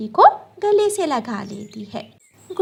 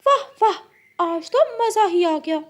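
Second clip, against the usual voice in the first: gloating parrot; 7 semitones higher than usual. Acted.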